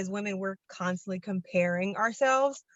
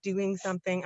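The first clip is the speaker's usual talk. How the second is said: slightly breathless while moving around; talking while out of breath; 3 dB quieter than usual. Real, not acted. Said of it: "I'm out of breath".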